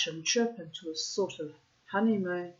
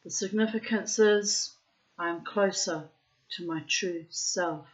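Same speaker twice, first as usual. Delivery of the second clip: put-on Russian accent. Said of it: "I'm putting in the Russian accent".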